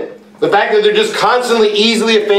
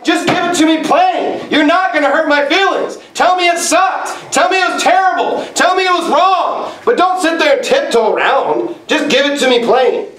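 insistent demand; 5 semitones higher than usual. Retold or imitated. Demanding blunt feedback.

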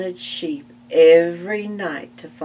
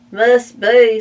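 pig agreeing; 5 semitones higher, 13 dB louder than usual. Acted. Spike answers Buster.

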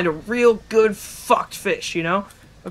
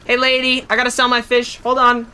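higher-pitched call to get attention; insistent call-out; 4 semitones higher than usual. Pretend. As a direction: hail a shopkeeper urgently. Calls out to game character.

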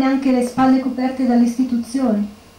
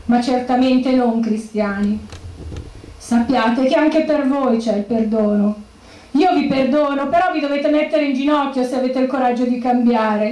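a widow addressing the mourners and the mafia, solemn and rising; solemn funeral address; 3 semitones higher than usual. Acted. Widow speaking to the funeral crowd, grave and pleading.

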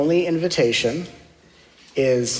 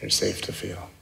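guided meditation; 3 semitones lower, 6 dB quieter than usual. Acted. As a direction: guide them gently into stillness.

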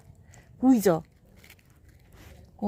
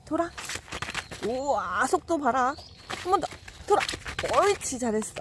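bright praise for a pet; talking to a dog; 3 semitones higher than usual. Real, not acted. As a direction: cheer the dog on as it spins.

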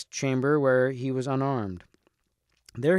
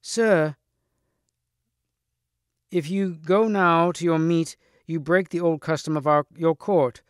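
raised, louder voice of protest; exclaimed objection; 4 semitones higher, 4 dB louder than usual. A narrator's reading. Sir Kay the steward stopping the king's dinner, exclaimed protest. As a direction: exclaim it to the king, higher and louder. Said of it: "the steward exclaimed".

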